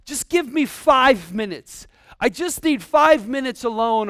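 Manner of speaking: drawn-out, fed-up begging; exasperated plea. Acted. Overwhelmed person asking for a few minutes alone, exasperated. Worn-out parent begging for space.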